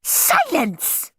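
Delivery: high, commanding order; ordering teacher. A narrator's reading. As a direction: command the class. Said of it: "ordered Miss Battleaxe".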